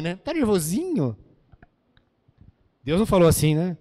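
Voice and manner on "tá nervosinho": teasing wife, lightly voiced, swooping up then down; mock needling question to a husband; imitating wives. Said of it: "As esposas falam". (imitação leve de esposa provocando)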